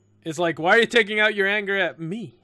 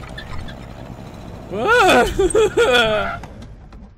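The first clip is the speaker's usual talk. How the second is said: high, loud broken wailing; exaggerated wail; 10 semitones higher, 4 dB louder than usual. Drunk girl reacts to friend's harsh words, loud wail. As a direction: wail in bursts.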